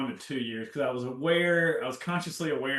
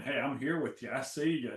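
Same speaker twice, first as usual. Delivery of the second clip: gentle self-talk; 3 dB quieter than usual. Retold or imitated. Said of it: "talking to myself nice".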